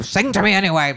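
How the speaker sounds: lightly imitating someone gross while eating; Denethor. Imitating a lord demanding a song over food, gross. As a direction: slobber lightly through the line, mock-gross. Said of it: "being so gross".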